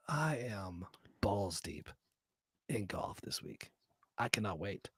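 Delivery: whispered low and slow; hushed whisper. Acted. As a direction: lean in and whisper it. Hushed crude emphasis.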